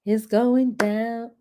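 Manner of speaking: "It's going down" said very slowly; slow and savoring; drawn out. Shown as a demonstration. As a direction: stretch every word of "It's going down". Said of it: "Let me say it like this".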